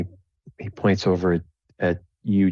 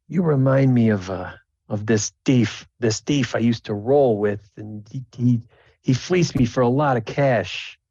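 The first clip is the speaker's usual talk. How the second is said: louder, pointed accusation; suspicious jester; 4 semitones higher, 3 dB louder than usual. Acted. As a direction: call out a face from the past.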